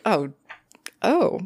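high-pitched intrigued cooing. Retold or imitated. Little goth girls hearing about a ghost, intrigued.

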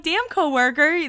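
laughing, high and amused. Real, not acted. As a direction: say it through a laugh. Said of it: "I'm like".

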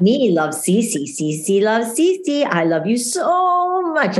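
mother mimicking her daughter kissing the mirror; child talking to the mirror. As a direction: coo it slowly like a six-year-old.

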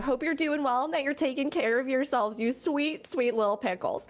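squeaky clean intro voice. Acted. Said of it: "most squeakiest, cleanest intro ever".

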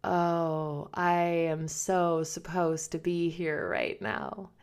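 a calm, moved whisper of belonging; quiet awe. Retold or imitated. Recalling her first yoga class, softly awed. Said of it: "I was like".

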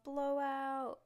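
high, loud call of blowout; announcer yell. Acted. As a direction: shout it like a lane announcer. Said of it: "the guy yelled".

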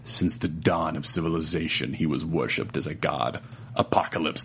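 low, dramatic trailer narration with a few laughing breaks; movie trailer voice. Shown as a demonstration. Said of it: "should I read it in movie trailer voice?".

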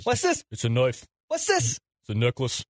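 mock annoying kid.

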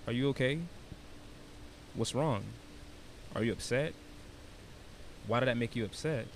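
gentle questions to himself, long pauses between; baby talk. Shown as a demonstration. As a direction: check in with yourself as with an upset child. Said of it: "I baby talk myself".

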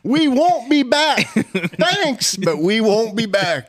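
high, slow, laughing polite no; amused firm refusal, half laughing. Retold or imitated. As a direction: stretch it out through giggles. Retold parting reply.

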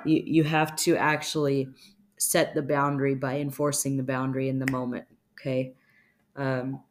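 ordinary delivery

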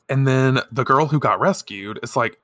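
ordinary talk

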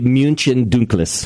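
München Dunkles as "MUEN-chen DOON-kless"; German-style München Dunkles; German pronunciation. Shown as a demonstration. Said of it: "if it was German".

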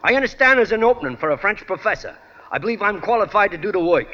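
Brooklyn job applicant. Retold or imitated. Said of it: "I'd walk in for an interview with a school board and I'd say".

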